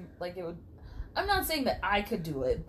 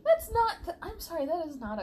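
high laughing protest; laughing disbelief; 9 semitones higher, 3 dB louder than usual. Real, not acted. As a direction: break up mid-objection.

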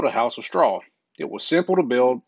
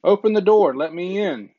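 wolf crying out; 5 semitones higher than usual. Acted. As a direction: demand entry like a hungry wolf. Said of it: "cried the big bad wolf".

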